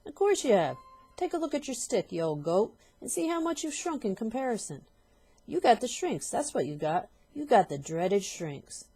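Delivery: high, loud taunting; mock her, savouring it; taunting husband. Husband taunting his wife about the shrinks, loud.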